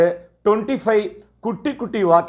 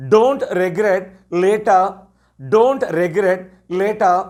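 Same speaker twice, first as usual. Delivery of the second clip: slow teacher model phrase; much slower than usual. Shown as a demonstration. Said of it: "எப்படி சொல்லுவீங்க?".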